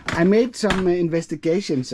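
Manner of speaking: strained while lifting; lifting something heavy mid-sentence; carrying heavy load. Real, not acted. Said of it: "this is heavy".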